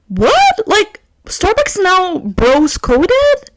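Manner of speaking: high, slow disbelief; shocked. Real, not acted. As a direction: sound stunned and baffled.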